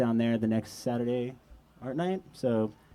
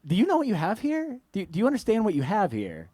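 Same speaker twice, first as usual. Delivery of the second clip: excited; 5 semitones higher than usual. Retold or imitated. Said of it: "I was like".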